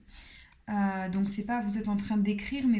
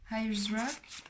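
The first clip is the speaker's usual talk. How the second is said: fake English accent. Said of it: "Je fais genre, j'ai un bon accent, euh, anglais".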